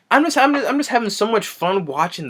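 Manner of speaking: high-pitched, giggly delight; cracking up while speaking; laughing. Real, not acted. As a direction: talk through real laughter. Cracks up at the movie.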